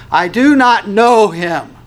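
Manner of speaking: slow, high, loud disavowal; intense denial. Acted. Peter curses and denies Jesus, intense denial. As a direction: deny him forcefully, every word hammered. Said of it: "will become more intense about his denial".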